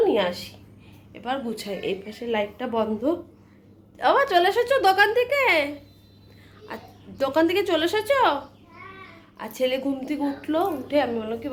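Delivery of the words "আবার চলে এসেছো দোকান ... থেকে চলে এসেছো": high surprised call; pleasantly surprised, calling out. Real, not acted. Greeting returning son, surprised.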